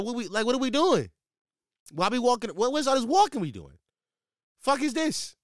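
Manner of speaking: high, loud exasperated complaint; mock outrage. To the girl who wants a winter walk, high mock outrage. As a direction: squeal the protest, hammed-up disbelief.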